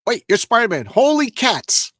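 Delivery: high, slow, awestruck guard voice; excited security guard. Acted. Guard spotting Spider-Man with his flashlight, awestruck. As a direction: gasp it out like a starstruck fan.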